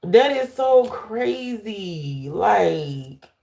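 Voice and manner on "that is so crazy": slow, drawn-out marveling; slow awed disbelief; amazed. Real, not acted. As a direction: stretch it out in wonder. Marveling at card.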